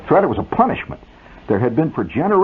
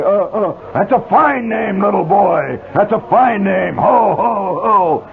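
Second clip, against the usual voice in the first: jolly Santa; 8 semitones higher, slower than usual. Acted. Santa answers the stammering kid.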